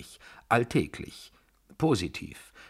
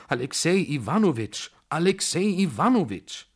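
much higher, pleading call of his name; desperate calling; 9 semitones higher, 4 dB louder than usual. Acted. General calls Alexei back from the door, desperate. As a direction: call him back in despair.

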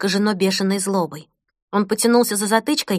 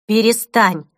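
calm adult voice; 4 dB louder, slower than usual. Acted. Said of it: "спокойным взрослым голосом".

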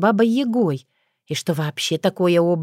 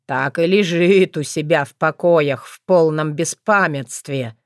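gruff werewolf voice. Acted. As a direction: drag it out like a brooding werewolf. Werewolf Bardadym reports on prince.

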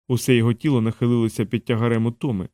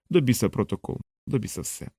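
muttered defiance; 6 dB quieter than usual. Acted. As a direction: spit it under your breath, done with it all. Ender's inner defiance.

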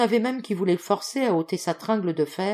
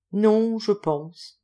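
very slow, drawn-out answer, pitched up; absent, slow reply; 4 semitones higher, 3 dB louder, much slower than usual. A narrator's reading. Dazed friend answering his visitor, absent slow reply. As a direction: answer as if lost in thought.

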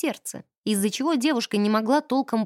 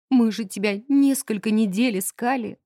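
bursting into tears. Acted. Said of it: "разрыдалась".

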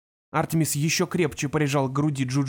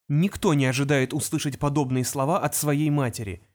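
ordinary delivery

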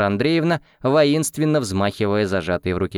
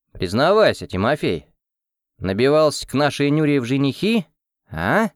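joking tone; 5 semitones higher than usual. Acted. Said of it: "спросил шутливым тоном".

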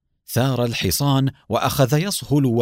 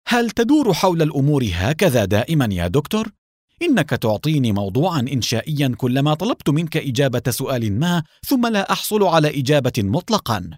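higher, fast, firm rebuke; firm and angry; 4 semitones higher than usual. Acted. Nour interrupting the evasive doctor, firm and angry. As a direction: cut him off with angry impatience. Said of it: "قاطعه نور بلهجة حازمة غاضبة".

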